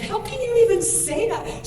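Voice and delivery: high-pitched, incredulous protest; reliving an angry protest, voice shooting up; retold outrage. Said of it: "I was so mad".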